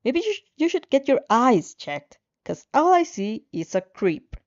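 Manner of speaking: loud, high, derisive jab; loud mocking jab at his friend about the girl; mocking sneer. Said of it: "Katsuki snorts".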